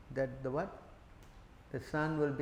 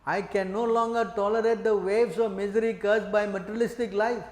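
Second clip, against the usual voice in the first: begging; 3 semitones higher, 4 dB louder than usual. Retold or imitated. Brahmin begging his Lord to let him leave home, rising plea. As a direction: beg the Lord to take you along. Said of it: "The Brahmana begged".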